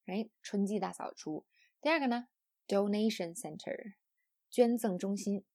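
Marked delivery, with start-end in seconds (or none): 2.7-3.9 "donation" carries the main stress; compound-noun stress. Shown as a demonstration. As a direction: stress "donation", keep "center" lighter. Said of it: "复合名词重音在第一个单词上".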